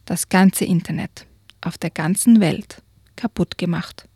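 lively read-aloud storytelling; story narration. A narrator's reading. Reads a children's book aloud.

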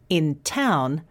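town with a puff of air on the t; aspirated t. Shown as a demonstration. Teacher demonstrating the t in "town", aspirated t. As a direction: breathe out hard on the t of "town". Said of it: "the difference is between the t".

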